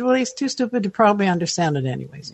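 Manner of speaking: dry sarcastic jab, a bit quick. Retold or imitated. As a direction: toss off a sarcastic put-down. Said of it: "That's my sarcasm there".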